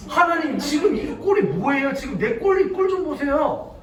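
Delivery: acted indignant complaint to God; hammed-up outraged grumbling; mock uproar. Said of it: "막 난리가 났어요".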